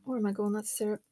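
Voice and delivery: hoarse, sore-throat voice; talking with a sore throat; throat infection voice. Real, not acted. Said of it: "Excuse the voice".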